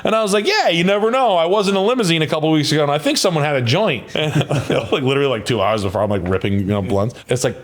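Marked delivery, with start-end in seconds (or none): 0.5-4.0 high-pitched, hurried excuse; retold excuse. Donor covering himself before the test result, high retold excuse. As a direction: retell it high, easing down toward the end.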